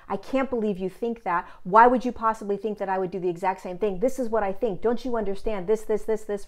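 fast, pushy demo of arguing back; mock defensive rant, hammering "this, this, this"; defensive argumentative. Shown as a demonstration. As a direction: rattle it off like you're defending yourself. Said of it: "You're defensive, you're argumentative".

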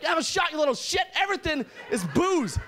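put-on high, rowdy drunk dad shout; drunk parent bark. Drunk dad to his kid, a high rowdy shout. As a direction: bellow it like a boozy Alberta dad.

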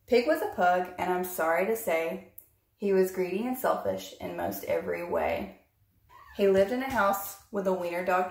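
put-on bouncy read-aloud rhyme for children; story narration. A narrator's reading. Reading Pig the Pug to her listeners, lively storytime voice. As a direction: read it like a picture book to little ones. Reads picture book aloud.

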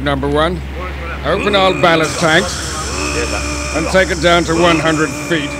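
clipped submarine captain's commands; hushed tense submarine orders. Acted.

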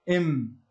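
إم said as a short i-sound then a held closed-lip م; sounding a letter. Shown as a demonstration. Teacher showing students where the م is made, short إم. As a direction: say إم with kasra hamza and still م. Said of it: "نأتي بهمزة الوصل المكسورة ويكون الحرف ساكن".

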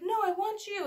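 high-pitched imitation of a whining kid; insistent child. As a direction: mimic a child demanding mom. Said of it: "And she's like".

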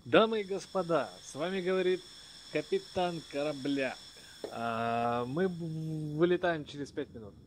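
pilot addressing the passengers; captain announcement. Acted.

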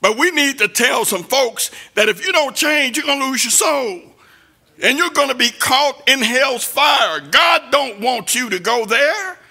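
rising, pounding sermon delivery; preaching at full force. Acted. Preacher warning the church about temptation, pounding sermon voice. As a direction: preach it hard at the congregation.

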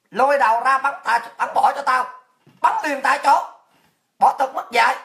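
hammed-up furious commander; acted execution order. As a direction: order them dragged out, loudly. Acts invader ordering executions.

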